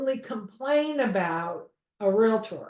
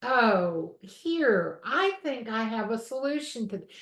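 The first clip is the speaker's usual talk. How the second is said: calm soothing voice. Retold or imitated. Instructor imitating patient complaint-line ladies, mildly soothing. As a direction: mimic a calm phone agent gently. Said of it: "they talk like this".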